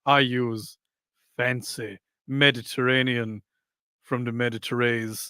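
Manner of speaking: a hint of Mediterranean, each phrase set apart; Mediterranean accent. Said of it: "That was a Mediterranean accent".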